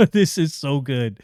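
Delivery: chuckling through the words; laughing praise. Real, not acted. Reviewer to viewers, laughing with delight.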